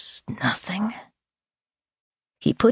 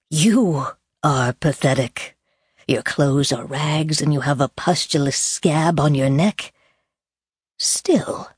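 sneering villain voice. Acted. Villain taunts Claire.

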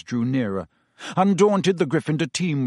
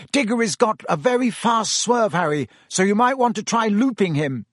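shouting after; 8 semitones higher, 3 dB louder than usual. A narrator's reading. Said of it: "Wood shouting after him".

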